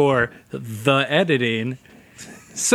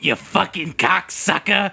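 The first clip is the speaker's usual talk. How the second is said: drawled Deadwood insult; 4 semitones higher, slower than usual. Pretend. Deadwood cowboy voice.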